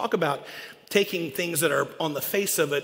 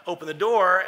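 wolf demand; 3 semitones higher, 8 dB louder than usual. Acted.

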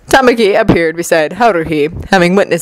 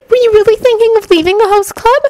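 tearful; 13 semitones higher than usual. A narrator's reading. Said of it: "one girl asked tearfully".

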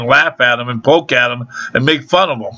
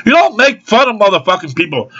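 real irritation, voice pitched up; indignant, higher-pitched rant; pissed off; 5 semitones higher than usual. Real, not acted. Customer ranting at staff who make fun of people, pissed off. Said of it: "I'm fucking pissed off".

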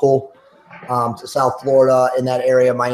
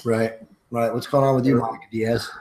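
talking through a mouthful of peanut butter; words round a sticky mouthful of peanut butter; mouth full of peanut butter; 3 dB quieter than usual. Real, not acted. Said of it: "I have peanut butter in my mouth right now".

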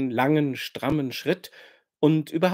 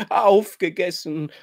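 höher und lauter schluchzend wiederholt; 4 semitones higher, 5 dB louder than usual. A narrator's reading. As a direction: unter Tränen hervorstoßen. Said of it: "schluchzt sie".

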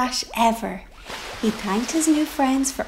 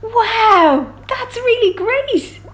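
much higher, louder excited chorus; high excited cheer; delighted sea creatures; 9 semitones higher, 7 dB louder, slower than usual. Acted. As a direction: cheer him on with wonder. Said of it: "said all the other sea creatures".

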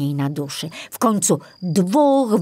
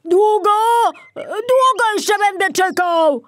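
much higher, louder impatient roar; impatient bear; 5 dB louder than usual. Acted. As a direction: demand it, out of patience. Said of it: "niedźwiedź zaczął się niecierpliwić".

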